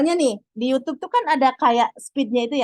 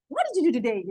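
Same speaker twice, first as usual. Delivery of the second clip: fast native English; 3 semitones higher, faster than usual. Shown as a demonstration. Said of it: "Jadi kayak ada yang hilang".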